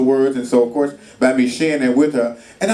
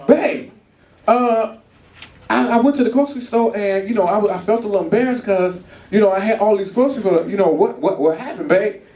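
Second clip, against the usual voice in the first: wife on phone; 5 semitones higher than usual. Retold or imitated. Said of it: "she on the phone".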